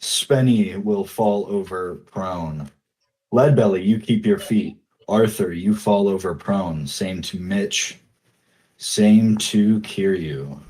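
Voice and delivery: slow, steady GM ruling; unhurried game master verdicts; game master narration. Acted. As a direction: read each result out calmly. GM narrates the results.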